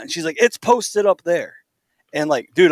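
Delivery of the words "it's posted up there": higher, slow mock call; retold yelling lady. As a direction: imitate a neighbor insisting from across the street. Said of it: "park lady yelling at us".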